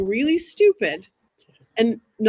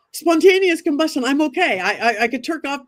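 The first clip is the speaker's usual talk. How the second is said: excited skeptic; 4 semitones higher than usual. Retold or imitated. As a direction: gush like a filmmaker who got his shot. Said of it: "was like".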